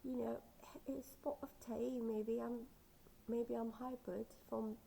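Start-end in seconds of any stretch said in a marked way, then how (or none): 0.9-2.0 put-on brief playful British accent; a hint of mock British. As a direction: lightly put on a tea-time British accent. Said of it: "I believe I can do the".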